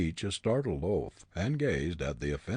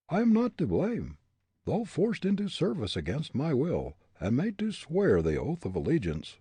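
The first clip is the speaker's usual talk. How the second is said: higher, defiant defense; lightly voiced defiant Hartley; defiant young man; 10 semitones higher, 4 dB louder than usual. A narrator's reading. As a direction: stand up for yourself.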